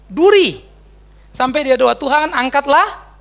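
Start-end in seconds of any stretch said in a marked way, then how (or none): 2.0-3.1 pleading. Retold or imitated. Paul's retold prayer.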